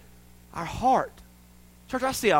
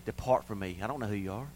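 grave warning; 9 semitones lower, 10 dB quieter than usual. Retold or imitated. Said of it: "Jesus warned us of that".

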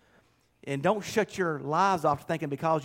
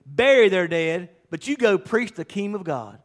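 Jesus' command; 2 semitones higher, 4 dB louder than usual. Retold or imitated. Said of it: "Jesus said".

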